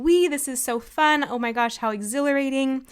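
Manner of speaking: put-on a child on a fun ride; voicing excitement. Shown as a demonstration. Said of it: "the excitement is saying".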